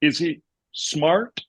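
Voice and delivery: slow, halting film-quote impression; Forrest Gump. Father asking about his little son, Forrest Gump impression. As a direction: ask it haltingly, with a long gap before the last word. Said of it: "And then when he's like".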